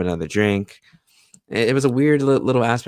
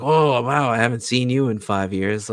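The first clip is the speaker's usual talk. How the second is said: pleasantly surprised; 4 semitones higher than usual. Retold or imitated. Retells dad's surprise at reunion.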